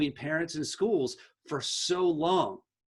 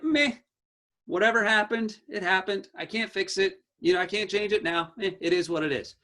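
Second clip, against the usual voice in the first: shrugging meh; lightly mock a kid who doesn't care; indifferent; 3 semitones higher than usual. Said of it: "He's just kinda like".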